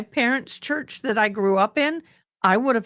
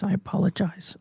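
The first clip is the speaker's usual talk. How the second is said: softer, hushed apology; talking softer; 5 dB quieter than usual. Real, not acted. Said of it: "I'll start talking like this".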